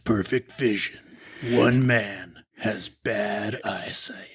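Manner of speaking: slow, low trailer narration; dramatic trailer announcer; movie trailer voice. Pretend.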